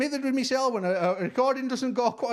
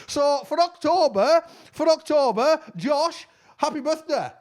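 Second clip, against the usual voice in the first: emphatic call-out; 4 semitones higher, 5 dB louder than usual. Real, not acted. Belated birthday message, exclaimed.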